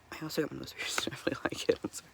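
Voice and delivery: hushed whisper. Real, not acted. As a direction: whisper so she doesn't wake. Girlfriend sleeping next room.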